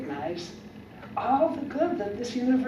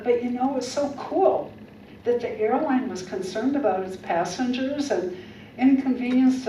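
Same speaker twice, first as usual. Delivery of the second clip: bright, lively, upbeat voice; upbeat retelling; 3 semitones higher than usual. Retold or imitated. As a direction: tell it as good news. Retelling the trip with joy.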